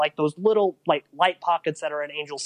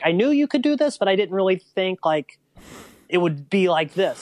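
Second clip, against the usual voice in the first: higher-pitched retelling of an emotional mother, no sobbing; retold tearful mom; 4 semitones higher than usual. Mom reacting to her son's first race report, mildly tearful imitation. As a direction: lightly imitate a moved mom, starting high and settling down. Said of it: "started crying".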